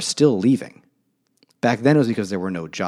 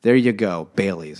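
hammed-up ad pitch; 4 semitones higher, 5 dB louder than usual. Acting out ad exec pitch.

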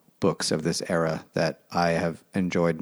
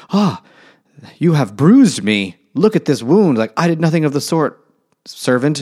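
much higher, louder hammed-up spoiled girl; mock whiny Catherine; 7 semitones higher, 7 dB louder than usual. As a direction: whine like a pampered brat. Mocking young Catherine's complaint.

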